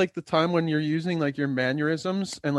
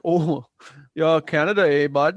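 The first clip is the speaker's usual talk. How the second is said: mock Canadian accent; 4 dB louder than usual. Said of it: "it's not like you".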